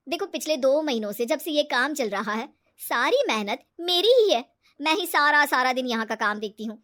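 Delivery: loud, emphatic grievance; aggrieved complaint. Acted. Business partner saying all the work is hers, aggrieved. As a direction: claim all the credit, with mild indignation.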